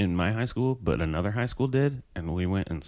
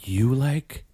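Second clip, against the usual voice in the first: whispering; 3 semitones higher than usual. Retold or imitated. Mocking the Shakespeare line.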